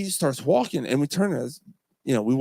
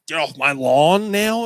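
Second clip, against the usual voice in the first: put-on grumpy old man; 2 semitones higher, 6 dB louder, slower than usual. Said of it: "am I that".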